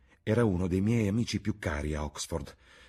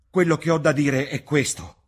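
high loud shout; 11 semitones higher, 11 dB louder than usual. Acted. Basil confronting Dorian, shouting. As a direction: shout it at him. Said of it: "gridò".

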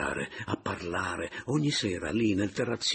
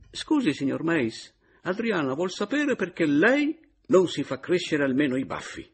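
teasing question; 11 semitones higher, 6 dB louder than usual. A narrator's reading. Caporale teasing, laughing question.

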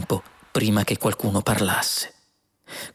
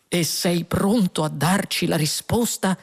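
higher-pitched anxious question; 8 semitones higher than usual. A narrator's reading. Two men await the computer's answer, anxious. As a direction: ask it on edge, voice lifted. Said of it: "domandò ansioso Lunqual".

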